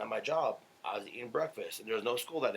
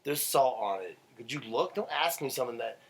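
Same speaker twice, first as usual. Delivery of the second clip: angry rant; 3 semitones higher than usual. Real, not acted. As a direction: tear into him for a dumb question. Ranting at cousin over salt.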